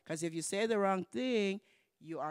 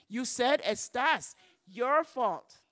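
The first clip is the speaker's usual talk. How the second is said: teasing mock accusation; 5 semitones higher, 7 dB louder, slower than usual. Teasing the nurse.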